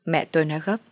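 ordinary delivery

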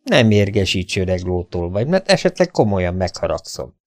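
cool, unhurried, over the shoulder; calm warning. Acted. Derek calmly warns the raging bully over his shoulder. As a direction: stay calm while threatening. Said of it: "nyugodtan szólt hátra".

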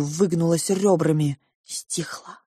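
ordinary delivery

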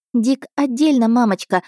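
put-on a little girl confiding to her mother, lightly hushed; child's whisper. Daughter tells her mother the stranger's name, high child voice. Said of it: "прошептала девочка".

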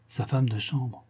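écho retenu, plus doux; répète-le tout bas, comme pour toi; reprise étonnée. Acted. Reprise incrédule de la réplique. (reprise étonnée, à voix plus douce)

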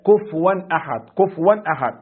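"كفوا" read kuf'an, the fa silent; Nafi's "كفوا" with a stilled fa; fa with sukun. Shown as a demonstration. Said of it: "بإسكان الفاء". (كفوا بإسكان الفاء على قراءة نافع)

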